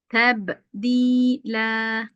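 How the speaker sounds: slow drawn-out chanted recitation; Quran recitation. Shown as a demonstration. Teacher reciting the verse for students. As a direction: chant each vowel long and even. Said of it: "teacher recites Quran verse".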